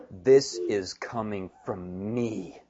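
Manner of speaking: slow, low-key weight on "This is coming from me"; emphatic. Retold or imitated. Preacher voices Paul owning his words, slow and emphatic. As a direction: spell out "This is coming from me" slowly, word by word. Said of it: "are to be emphatic".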